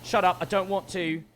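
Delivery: lightly voiced sulky man refusing; imitating Theo whining to his partner; mock whiny Theo. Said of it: "standing there saying".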